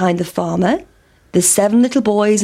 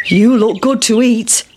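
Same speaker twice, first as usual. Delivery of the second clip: sheep; 3 dB louder than usual. Acted. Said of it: "said the sheep".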